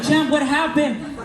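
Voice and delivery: lightly voiced mentor laughing; amused laugh. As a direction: savor it like you saw this coming. Mario amused at the reversal.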